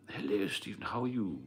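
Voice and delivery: lightly attempted posh royal English accent; a hint of plummy royal English; Prince Charles. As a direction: have a loose go at an upper-class English accent. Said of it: "he spoke like Prince Charles".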